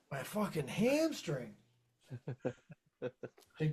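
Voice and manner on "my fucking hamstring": slow, softer strained reply; retold pain. Telling the girl about his hamstring cramp, slow retold pain. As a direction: answer slowly, acting out the cramp. Acts himself in pain, answering her.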